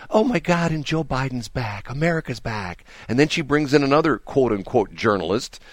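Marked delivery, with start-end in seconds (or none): 0.1-2.8 mock gushing anchor. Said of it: "she's going like".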